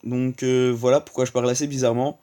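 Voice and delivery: talking with a blocked nose; stuffy nose, sore throat. Real, not acted. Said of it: "J'ai le nez bouché et j'ai un peu mal à la gorge".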